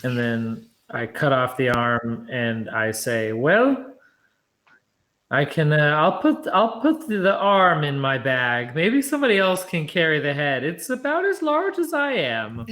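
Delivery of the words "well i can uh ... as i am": high, loud squeaky voice; high character voice. Acted. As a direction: pitch way up for the character. Player voices own character.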